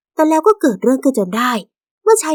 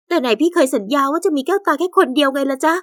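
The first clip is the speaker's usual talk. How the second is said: reproachful; 4 semitones higher than usual. Acted. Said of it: "เธอถามเขาอย่างตัดพ้อ".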